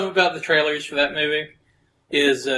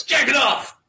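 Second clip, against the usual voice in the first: high-pitched imitated yell; Jackie Chan; 9 semitones higher than usual. Imitating Jackie Chan yelling at the kid he spars with, mock shout. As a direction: yell it out high, like a sparring coach in a trailer. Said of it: "and Jackie Chan yells".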